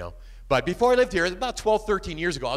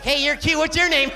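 higher pick-up line through a stuck lip; 10 semitones higher, 4 dB louder than usual. Acted. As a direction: talk with the top lip stuck up dry. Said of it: "my lip kinda stuck up there like that".

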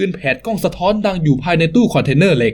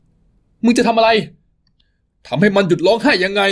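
higher, slow, alarmed challenge; 6 semitones higher, slower than usual. Acted. Father confronting the thug over his son, alarmed and higher. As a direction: stop him before he hits the child.

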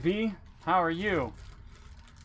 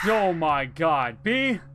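panicking gamer; 2 semitones higher, 6 dB louder, slower than usual. Real, not acted. Another scare in game.

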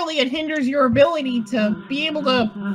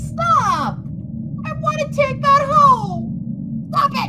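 high whiny pleading; 12 semitones higher, much slower than usual. Real, not acted. Pleading with friend.

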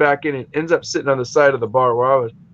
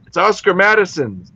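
higher-pitched, plain announcing of a name; matter-of-fact answer; 5 semitones higher than usual. Retold or imitated. Bartender telling a newcomer the pub's name, matter-of-fact. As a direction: state the name as the obvious answer.

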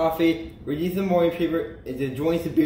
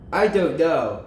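lightly acted moan of discontent; mild moan; 3 dB louder, slower than usual. Bored Kansas answers his best friend, mildly moaning. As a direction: moan it a little, as a bored character. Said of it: "moaned Kansas".

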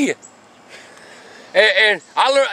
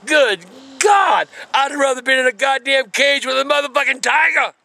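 exclaiming. Real, not acted. Teller recalls getting beaten, shouting in disbelief. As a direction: shout it like you still can't believe it.

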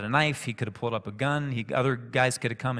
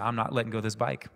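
calm and steady, a little softer; 3 dB quieter, faster than usual. Retold or imitated. Teacher calmly refusing the shouting kid, steady and soft. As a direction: hold your ground calmly, no heat. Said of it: "in a calm voice like that".

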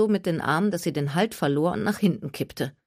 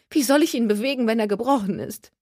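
whining Gertie; 6 semitones higher, 3 dB louder than usual. A narrator's reading. Gertie whines.

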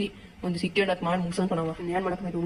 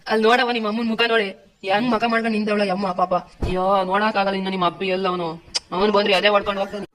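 loud scolding; 5 dB louder than usual. Acted. Elder scolds girl before village.

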